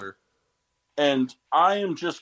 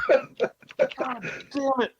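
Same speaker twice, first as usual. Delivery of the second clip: much higher, very slow drawn-out lament; anguished wail; 13 semitones higher, much slower than usual. Real, not acted. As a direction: mourn the lost pick theatrically. Lamenting lost pick.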